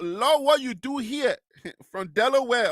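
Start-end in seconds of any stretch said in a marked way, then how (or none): 0.0-1.4 put-on light Liberian accent, slightly raised; playful Liberian accent imitation. Reading a viewer's comment, teasing in mild Liberian accent. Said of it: "Liberian accent".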